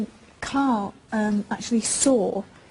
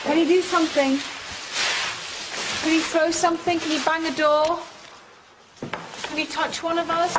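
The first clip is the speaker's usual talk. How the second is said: raised, higher requests to a spirit; talking to a ghost; 4 semitones higher than usual. Real, not acted. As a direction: coax the presence to act. Calling out to a spirit.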